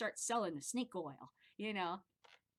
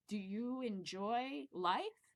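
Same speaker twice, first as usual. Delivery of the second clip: salesman script; 2 semitones higher, much slower than usual. Retold or imitated. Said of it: "we had scripts that would get you to buy".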